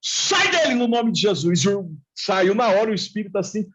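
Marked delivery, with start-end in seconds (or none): 0.0-1.6 retold rebuke, pitched up on the first word; exorcism command. Believer casting a spirit out of the brother, mildly acted command.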